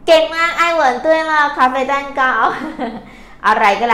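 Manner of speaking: high, loud, quick cheer; excited praise. Real, not acted. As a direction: burst out praising a student's right answer. Teacher praises student's correct answer.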